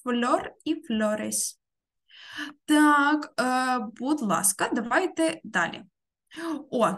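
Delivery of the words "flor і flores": slow model reading. Shown as a demonstration. Teacher models the words slowly.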